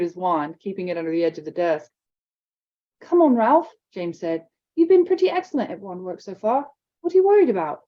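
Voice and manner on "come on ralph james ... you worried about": higher, louder coaxing; urging a nervous friend; encouraging. Acted. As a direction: cheer him on. James urging.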